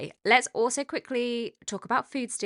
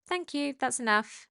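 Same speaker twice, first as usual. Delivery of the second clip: calm, higher-pitched acknowledgement; 6 semitones higher than usual. Shown as a demonstration. Trainer showing owners what to say when dogs bark, calm. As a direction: say it calmly and lightly, without any fuss. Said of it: "you simply say in a really calm voice".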